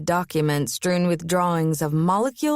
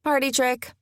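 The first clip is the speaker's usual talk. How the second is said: dry, wry higher remark; 6 semitones higher than usual. Acted. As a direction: toss it off wryly. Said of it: "she said wryly".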